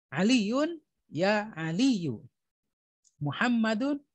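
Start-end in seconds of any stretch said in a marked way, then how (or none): 1.5-2.3 Aliyu slowed, ending on a bare u with no n; drawn-out "Aliyu", no final n; no tanwin. Shown as a demonstration. Teacher slowly modelling the vocative name without nunation. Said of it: "tidak boleh ada tanwin".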